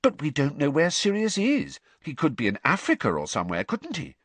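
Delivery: calm, sensible reasoning; reasonable. Acted. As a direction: reason it out patiently. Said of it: "said Hermione reasonably".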